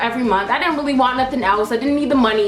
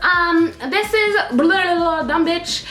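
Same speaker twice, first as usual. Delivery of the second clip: higher, put-on polite manager voice; mock manager voice; 4 semitones higher than usual. Phoning ex-employee about quitting, mock polite manager voice. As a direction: imitate a fake-sweet manager. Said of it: "she says".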